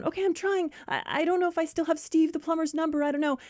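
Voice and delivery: high, quick flustered voice; fumbling friend. Acted. Pregnant friend fumbling for her phone, flustered. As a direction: stammer it out while fumbling. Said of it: "the other one's fumbling to get her phone".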